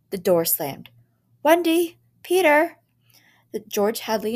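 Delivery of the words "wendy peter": high, loud shout; frantic shout. A narrator's reading. Parents shout frantically for their children. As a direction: yell in panic.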